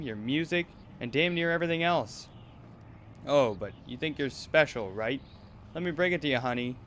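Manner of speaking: put-on harsh controlling manager scolding a girl; cold, bullying talent manager; abusive manager. Manager berates Ruby.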